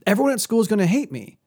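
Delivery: hammed-up dramatic teenager; mock upset daughter complaining; teen daughter's protest. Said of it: "she replies".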